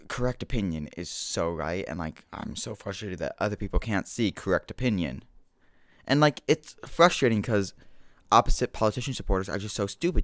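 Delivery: a hint of an outraged partisan whining; lightly hammed mock-frustrated supporter; mock partisan rant. Mocking political fans to his listeners, a lightly hammed whiny rant. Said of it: "I'm joking".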